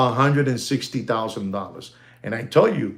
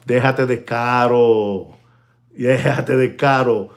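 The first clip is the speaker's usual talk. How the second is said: dismissive, lower Spanish brush-off; mock haggling retort; 3 semitones lower than usual. Telling a watch dealer to stop overcharging, dismissive. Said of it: "tú le dices".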